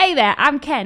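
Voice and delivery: put-on British accent. Recapping a show, a new arrival introduces himself to another guest: Kent's British accent. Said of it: "But like British accent".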